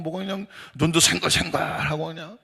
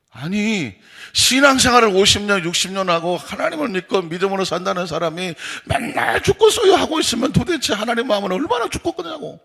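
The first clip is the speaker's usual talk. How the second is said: raised voice, climbing high in exasperation; retold scolding; 4 semitones higher, 3 dB louder than usual. Pastor scolding a sixty-year believer, retold scolding. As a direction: re-enact an indignant telling-off. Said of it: "제가 막 야단을 쳤어요".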